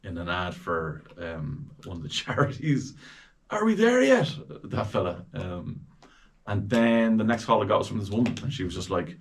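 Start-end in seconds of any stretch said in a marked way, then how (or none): 3.5-4.3 much higher, louder whiny donkey voice; donkey voice from a charity ad; cartoon donkey. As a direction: whine it like an impatient cartoon donkey. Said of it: "I was a donkey".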